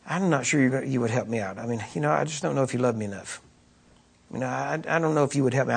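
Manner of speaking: soft, low, hesitant plea; hesitant, halting murmur to dad; imagined doubting child. Pretend. Voices child doubting father's love.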